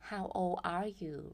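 put-on How old are you stretched slowly; teacher modelling slowly; slow model question. Shown as a demonstration. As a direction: spell it out slowly for learners. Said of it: "เคนพูดว่าอะไรบ้าง".

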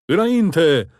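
loud, high battle roar; roaring command. A narrator's reading. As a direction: roar the order forward. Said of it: "răcni Daud".

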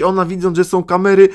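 normal talking voice

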